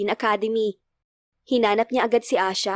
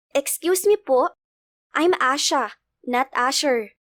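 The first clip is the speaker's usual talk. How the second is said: put-on little girl; 2 semitones higher, slower than usual. Little girl correcting a stranger on her name, childlike. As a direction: politely correct him as a small child.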